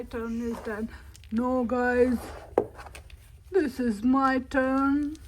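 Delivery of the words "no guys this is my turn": louder, excited calls; loud insistence. Real, not acted. Kid loudly claiming her turn, excited. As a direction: call it out over everyone.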